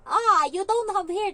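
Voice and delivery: high, loud, slow taunting yell; mock a bald kid at full volume; a hyper child teasing another child; teasing shout. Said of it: "Sabi niya ganun".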